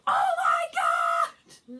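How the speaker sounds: loud, slow oh my God; excited crowd. Retold or imitated. Everyone hearing about a London song, loud slow exclamation. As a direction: gasp it out with delight.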